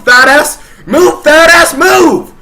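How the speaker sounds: high, loud exasperated yelling; shouted rant. Retold or imitated. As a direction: yell at him to move, losing patience. Ranting at fat man, shouting.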